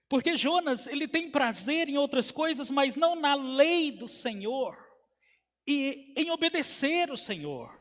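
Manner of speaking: high, emphatic preaching; pregação enfática. Acted. Preaches with raised voice. (pregação em tom elevado)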